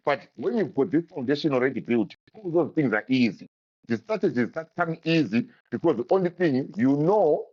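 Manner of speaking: crackling microphone distortion; talking through a crackling mic; crackly mic. Real, not acted. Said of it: "your mic is crackling".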